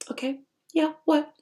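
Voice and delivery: offhand reply. Retold or imitated. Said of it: "And I'm looking like".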